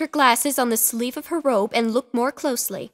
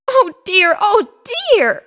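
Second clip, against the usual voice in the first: louder, higher anxious oh dear; fretful cry; 9 semitones higher, 8 dB louder than usual. A narrator's reading. Missus Picasso hurrying down the street, fretful crying. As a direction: wail it while hurrying. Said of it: "she cried to herself as she scurried".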